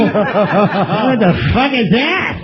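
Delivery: Norm impression, laughing. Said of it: "It's a little Norm Macdonald for you".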